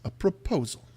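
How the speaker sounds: poised, formal clarification; Strahd repeating himself. Acted. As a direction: repeat it carefully for the guest.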